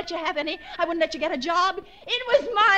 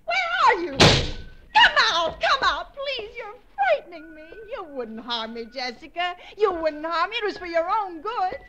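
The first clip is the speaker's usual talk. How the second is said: frightened pleading; slower than usual. Acted. Frightened pleading, near tears.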